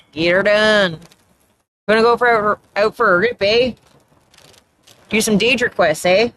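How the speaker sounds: lightly hammed-up Canadian slang voice; put-on Canadian accent. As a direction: play up a small-town Canadian accent. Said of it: "I mostly put that on".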